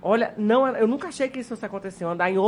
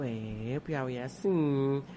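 lightly mimicked reply; 8 semitones lower, 9 dB quieter, much slower than usual.

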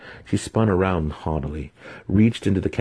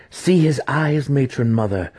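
high, louder eager cry, stress on see; eager exclaiming; 9 semitones higher, 4 dB louder than usual. A narrator's reading. Daughter urging her mother to see the baby's eyes, eager and high. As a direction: push the matron to look.

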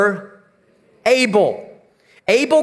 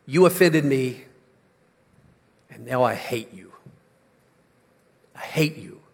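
low seething hatred; 8 semitones lower, 5 dB quieter than usual. Retold or imitated. Hateful thought voiced low.

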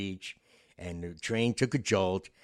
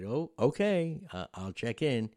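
taken aback; 5 semitones higher, 4 dB louder than usual. Retold or imitated. Startled passenger agrees.

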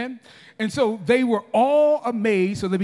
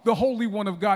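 crying out; 3 dB louder than usual. Acted. Unclean spirit confronting Jesus in the synagogue, crying out. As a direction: cry it out like a challenge. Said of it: "he cried out".

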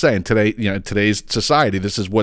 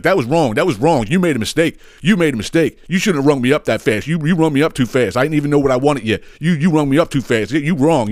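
imitated non-stop scolding, pitched up; yapping; 5 semitones higher than usual. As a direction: nag on and on as the indignant customer. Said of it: "he keeps on yapping and yapping and yapping".

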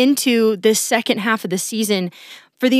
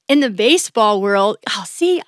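smiling. Real, not acted. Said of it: "I just can hear the smile in my voice".

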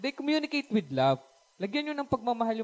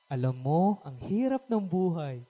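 sarcastic sigh; 3 semitones lower than usual. Retold or imitated. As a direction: say it dryly, with a sigh. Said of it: "Sarcastic lang". (mababa at mabagal na sarkastikong buntong-hininga)

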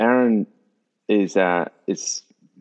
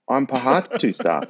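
puzzled, halting reply, slightly higher; hesitant and mildly confused; 4 semitones higher than usual. Retold or imitated. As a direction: imitate a baffled trainee answering slowly. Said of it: "Aaron's really confused".

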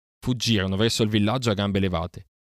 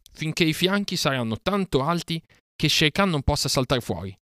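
shout; 8 semitones higher than usual. Acted. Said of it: "gridò Mowgli".

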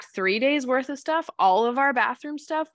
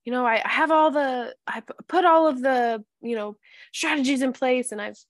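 put-on higher whiny teen voice quoting her; a hint of a frustrated teenager, pitched up; mimicking daughter; 5 semitones higher, 3 dB louder than usual. Mom quoting her teen's complaint, whiny and high. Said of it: "she was like".

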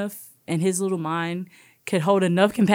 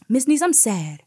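put-on high, louder little-girl plea; little girl's voice; 7 semitones higher, 5 dB louder than usual. Preschooler tells her teacher she feels sad, high childlike voice.

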